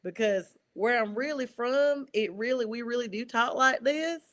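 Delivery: a touch of her country Southern twang, slowed; mock-protest in a thicker Southern accent. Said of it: "I'm like".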